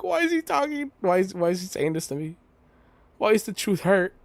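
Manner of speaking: high mocking girl voice; mocking Fang. Streamer mocking Fang's inner thoughts, high whiny mimicry. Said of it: "She's like".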